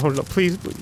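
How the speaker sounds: high, cracking pleas; begging. Acted. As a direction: beg him not to leave you. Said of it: "He's like".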